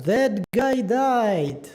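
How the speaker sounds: slow, drawn-out mock grief; hammed-up heartbreak; mock devastated. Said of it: "I am broken".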